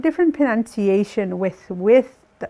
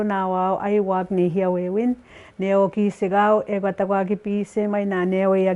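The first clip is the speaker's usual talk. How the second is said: fluent Cree run together; fluent speed. Shown as a demonstration. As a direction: rattle it off like a fluent speaker. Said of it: "If I said this fluently, I would be going".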